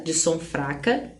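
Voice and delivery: usual speaking voice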